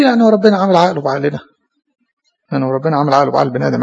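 quick, sceptical questioning voice; mock objector. Priest voicing a doubter questioning God, quick and sceptical. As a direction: rattle off the doubter's complaint.

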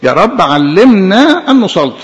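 slow earnest prayer line. Real, not acted. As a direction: pray it slowly, reverent. Prayer quoted. (صلاة ببطء وخشوع)

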